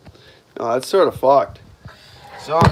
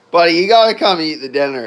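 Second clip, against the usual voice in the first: yelling across the room; 4 dB louder, faster than usual. Real, not acted. Calling pet, fast.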